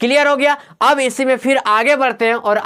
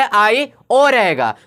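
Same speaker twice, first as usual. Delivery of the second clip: slow spelling; much slower than usual. Shown as a demonstration. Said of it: "फिर से एक बार बात बता रहे हैं".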